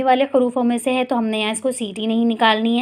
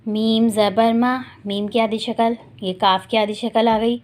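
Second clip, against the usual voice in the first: slow, deliberate letter-by-letter recitation; slow spelling drill; slower than usual. Shown as a demonstration. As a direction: drill each syllable slowly for the class. (آہستہ ہجے کی مشق)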